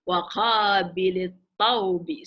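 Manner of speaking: Wa qabilit tawbi said slowly, stress on qabilit; نطق بطيء; slow Arabic phrase. Shown as a demonstration. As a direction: model Wa qabilit tawbi word by word. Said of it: "So do two words".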